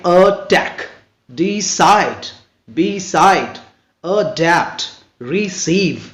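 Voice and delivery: attack, decide, beside split in two, weight on the end; two-beat word list, adapt and receive stressed on the second syllable. Shown as a demonstration. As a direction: slowly say a-TTACK, de-CIDE, re-CEIVE. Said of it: "the stress usually falls on the second syllable".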